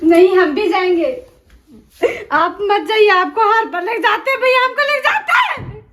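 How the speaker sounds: whiny protest. Acted.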